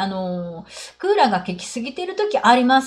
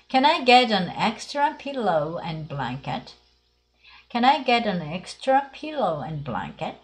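"pillow" and "blanket" spelt out slowly; slow model reading; slower than usual. Shown as a demonstration. Teacher slowly modelling a request for the class. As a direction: read it slowly so learners can copy. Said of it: "次は".

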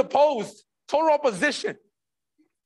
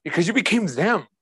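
emphatic, at full speaking level; firm grave answer; 3 semitones lower than usual. Acted. Preacher repeats God's answer to the congregation, emphatic. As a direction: press the reply home firmly.

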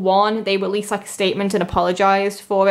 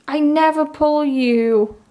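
slow, higher, stretched-out amazement; awed; 5 semitones higher, slower than usual. Real, not acted. Fan tells the card she never gets her, slow and amazed. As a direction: savour each word in wonder.

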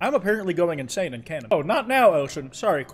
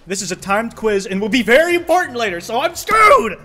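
panicked shout; 6 semitones higher, 8 dB louder than usual. Real, not acted. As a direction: wail in mock despair. Panic over timed quiz.

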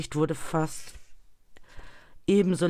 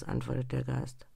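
usual speaking voice

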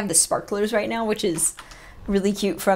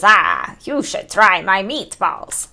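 put-on lightly Swedish-accented character line, drawn out; mild, imitated Swedish accent; attempted Swedish accent; much slower than usual. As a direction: say it slowly with a hint of a Swedish accent. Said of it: "But better and more Swedish".

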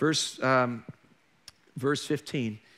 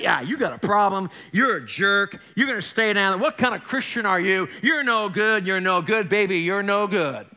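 taunting enemy. Retold or imitated. Enemy mocks the sinner, lightly sung taunt. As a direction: jeer at him like a crooning tempter. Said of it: "the enemy would say".

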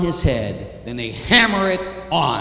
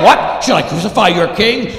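loud, raised, challenging question; raised-voice disbelief, short of a scream; Pilate's incredulous question; 5 semitones higher, 10 dB louder than usual. Acted. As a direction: call back over a shouting mob. Pilate answers the shouting mob.

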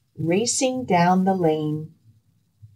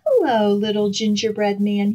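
grinning fox; 3 semitones higher, faster than usual. Acted. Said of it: "he grinned".

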